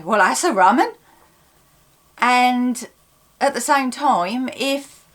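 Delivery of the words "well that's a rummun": Suffolk dialect example, said lightly; Suffolk accent. Shown as a demonstration. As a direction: say it like a local from Suffolk. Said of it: "you would say".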